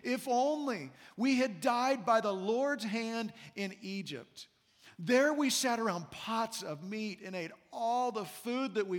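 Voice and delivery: mildly whiny complaint, drawn out; a touch of exaggerated whining. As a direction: read it as a grumbler's whine. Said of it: "read this in a whiny voice".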